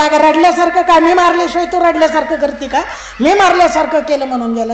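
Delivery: acted marital squabble; indignant bickering husband. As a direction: argue loudly for the credit. Husband arguing over who fooled beggar.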